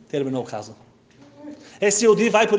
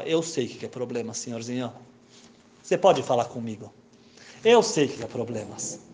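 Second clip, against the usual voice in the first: put-on gentle old man; 5 semitones lower than usual. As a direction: coax him like a kindly grandpa. Old man reassuring, calling himself grandpa.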